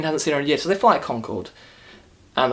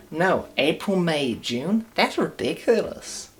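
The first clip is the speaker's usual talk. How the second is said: mocking indignant daughter; 5 semitones higher, slower than usual. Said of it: "She's like".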